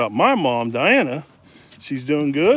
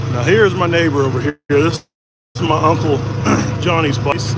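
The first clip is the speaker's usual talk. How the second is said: on a bumpy road; 2 semitones higher, 3 dB louder than usual. Real, not acted. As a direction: voice jolted by a bumpy ride. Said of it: "it's kinda bumpy".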